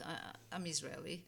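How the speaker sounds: reluctant, understated admission with a false start; hesitant. Retold or imitated. Immigrant unsure she wants to announce her origin, hesitant. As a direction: stumble on "I", then own up modestly. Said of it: "now it's like".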